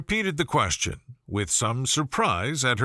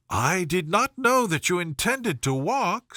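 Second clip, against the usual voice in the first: higher, hurried society lady; flustered Miss Bingley; 4 semitones higher than usual. Acted. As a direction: caught out, pitch up.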